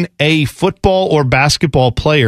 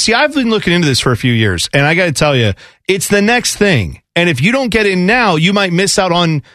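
crypto bro. Retold or imitated. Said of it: "sounds like every crypto bro".

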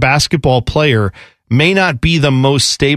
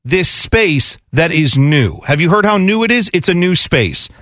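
crypto bro. Retold or imitated. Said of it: "sounds like every crypto bro".

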